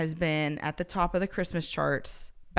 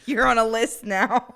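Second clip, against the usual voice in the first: laughing while talking; 4 semitones higher, 6 dB louder than usual. Real, not acted. Teasing laugh.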